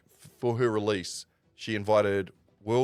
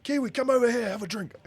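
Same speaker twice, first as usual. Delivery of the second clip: higher, lightly voiced call across the room; a hint of a big friendly call; lightly imitated friendly summons; imitating a rapper; 14 semitones higher, 3 dB louder than usual. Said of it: "I'm not gonna do the accent".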